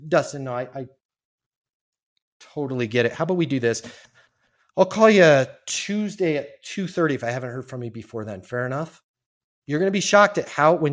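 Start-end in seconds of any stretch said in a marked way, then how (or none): 0.1-9.0 caring. Shown as a demonstration. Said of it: "this is an actual person who cares".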